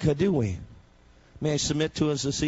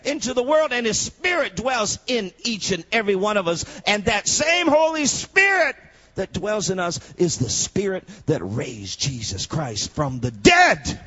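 full-force preaching; 8 semitones higher than usual. Acted. Preacher proclaiming the Spirit to the congregation, full-force preaching. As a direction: preach it out with rising fire.

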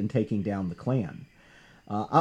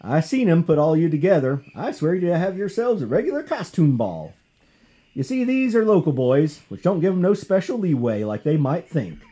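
put-on Southern sheriff accent; 2 semitones higher than usual. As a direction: lecture the thugs as a mild Southern sheriff. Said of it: "Southern accent here for the sheriff".

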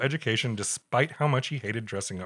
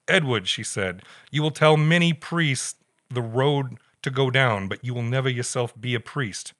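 a hint of an old New England Pepperidge Farm voice; Pepperidge Farm accent; 3 semitones higher, 4 dB louder than usual. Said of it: "I gotta get back to my Pepperidge Farm accent".

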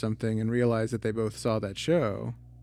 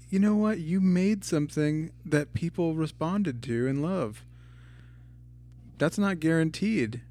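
higher-pitched, gentle telling-off; mild retold scolding; 4 semitones higher than usual. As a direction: imitate a friend lightly scolding. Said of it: "scolded me".

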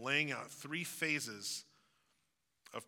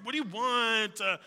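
high, louder drawn-out whine, stretching the last word; whiny teen drawl; 8 semitones higher, 7 dB louder than usual. Retold or imitated. Teenager whining back at a parent texting nonstop. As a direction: drag it out like a fed-up teenager. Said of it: "that extra syllable at the end".

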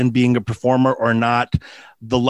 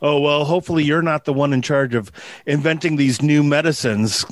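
put-on Tesla accent. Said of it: "my spot-on Nikolai Tesla accent".

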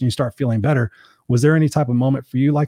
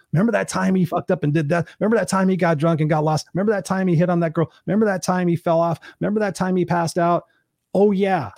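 higher, jokey voice of drinking buddies; mock buddies reminiscing; 6 semitones higher than usual. Friends at the funeral recalling his screwups, higher. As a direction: lightly play the old friends swapping stories.

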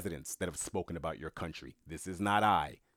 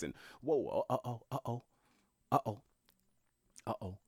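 higher, hammed-up alarm, building to uh-oh; mock panicking American; 3 semitones higher than usual. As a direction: play the scared citizen, half mocking. American people panicking hypothetical quote.

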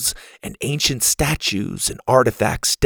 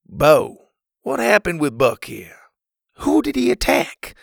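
stern father; 7 semitones higher than usual. A narrator's reading. Father questions son.

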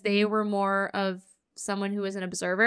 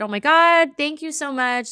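bright burst of mock delight, louder and higher; retold delight; 4 semitones higher, 4 dB louder than usual. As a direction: gush with thanks, a bit hammed-up. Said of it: "I was in a good mood".

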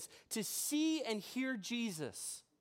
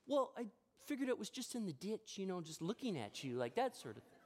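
offhand wife; 5 dB quieter than usual. Retold or imitated. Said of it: "She goes".

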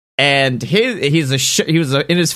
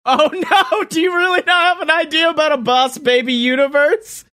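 mock dismay; 12 semitones higher, faster than usual.

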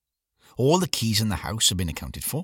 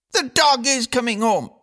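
put-on high, louder girl's cry; screaming girl; 4 dB louder than usual. A narrator's reading. Eldest daughter Eileen screams at her siblings over dinner, high and fierce. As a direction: insist fiercely, thumping each word. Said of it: "screamed Eileen".

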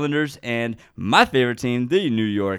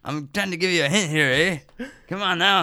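playful mock Mexican accent, pitched up; 5 semitones higher than usual. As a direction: tease out a hint in a Mexican accent. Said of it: "a Mexican accent for".

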